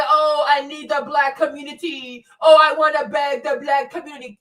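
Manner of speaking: whiny plea that turns into a shout; mock Candace begging the community, ending in a shout. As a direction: ham up a desperate beggar. Mocking Candace begging to return.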